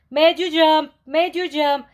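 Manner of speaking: high, loud gleeful squeal; a giddy little fox teasing in a high squeal. A narrator's reading. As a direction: squeal it while running around. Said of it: "ran around and around squealing".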